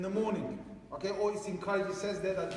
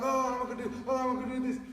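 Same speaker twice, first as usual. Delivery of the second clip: higher-pitched mock reluctance; mock scared; 5 semitones higher, faster than usual. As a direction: imitate a scared parent backing out. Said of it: "you kinda get scared as well".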